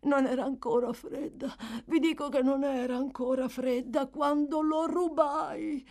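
crying out a terrible confession; frantic confession. Acted. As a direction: blurt the guilt out wildly. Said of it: "gridò balzando su con violenza".

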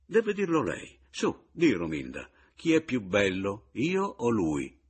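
taunting. Acted. Taunting rival before wife.

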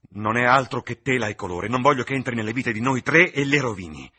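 loud, pleading and anguished; anguished outburst. Acted. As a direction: cry it out in despair. Painter pleading, about to destroy canvas.

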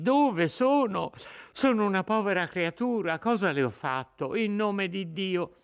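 put-on a terrified girl begging her captor; frightened young woman pleading. Lucia implora il rapitore. (Lucia disperata che supplica l'innominato, voce molto più alta)

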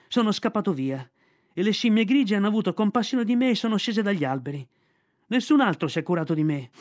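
put-on a boy pleading his case; lightly voiced hurt boy. Mowgli's child voice.

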